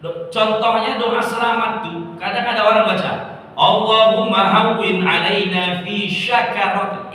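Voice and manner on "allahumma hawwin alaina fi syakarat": "syakarat" said with sh, the wrong way; wrong shin sound. Shown as a demonstration. Ustazah demonstrating the mistaken reading to the ladies. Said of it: "Ini salah".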